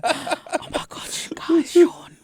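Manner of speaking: hushed, playful stage whisper; breathless pretend-shocked whisper; mock whisper. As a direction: whisper it like a secret to the guys. Mock secret aside to the room.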